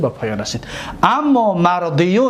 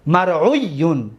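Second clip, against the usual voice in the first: slow drill; 3 semitones lower, slower than usual. Shown as a demonstration. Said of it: "واو را قلب یا کردیم".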